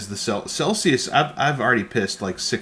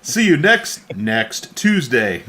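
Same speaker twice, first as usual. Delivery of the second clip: robotic voice; 5 dB louder, much slower than usual. Retold or imitated. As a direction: mimic a text-to-speech robot. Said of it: "Super robotic voice".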